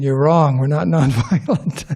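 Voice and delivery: lightly imitated gruff New Yorker, breaking into laughter; mock-tough New York accent with a laugh. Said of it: "gruff kind of New York accent".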